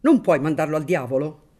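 loud and exasperated; angry shout. Acted. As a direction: bark it out in annoyance. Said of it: "gridò questa volta il barone".

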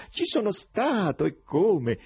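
high, loud, merry exclamation; exclaiming while laughing. A narrator's reading. Foreigner cheerfully admitting it to the poet, laughing exclamation. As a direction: burst out through laughter. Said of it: "esclamò sempre ridendo".

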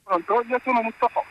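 muffled behind a face mask; speaking through a mask. Real, not acted. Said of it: "scusate perché ho la mascherina".

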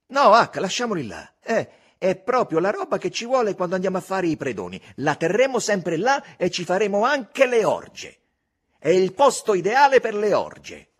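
put-on loud, high, boyish scheming; a boy dreaming of being a robber; enthusiastic Tom. A narrator's reading. Tom to Huck about the cave: eager scheming.

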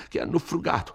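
anxious scolding of "hanno frugato"; agitated priest. Acted. Don Abbondio's voice held.

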